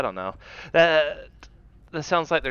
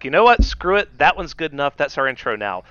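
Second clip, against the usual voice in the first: loud, high, fed-up blurt; exasperated outburst; 3 semitones higher, 6 dB louder than usual. Acted. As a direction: throw up your hands, loud. Mock giving up on intro.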